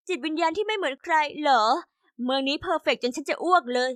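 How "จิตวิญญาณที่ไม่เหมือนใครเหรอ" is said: sarcastic echo. Acted. Teen daughter mocks her mom's words back at her, sarcastic. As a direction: throw the phrase back with mild contempt.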